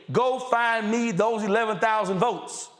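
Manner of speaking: mock Trump demanding votes; imitating Trump. Host mocks Trump's call for votes, a light impression. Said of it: "of him on record saying".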